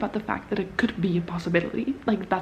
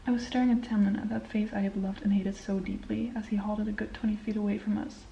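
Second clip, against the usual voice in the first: soft book reading, dropping quiet; hushed read-aloud of the novel; 4 dB quieter than usual. Acted. Reads book passage aloud.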